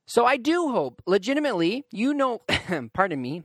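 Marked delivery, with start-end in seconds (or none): 2.7-3.4 clearing a cough, then apologizing; slightly hoarse after a cough. Real, not acted. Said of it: "I'm coughing".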